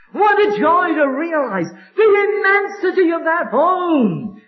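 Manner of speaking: overcome, choking up while preaching; voice breaking with joy. Real, not acted. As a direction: let the voice crack with feeling. Preacher moved by heaven's immensity.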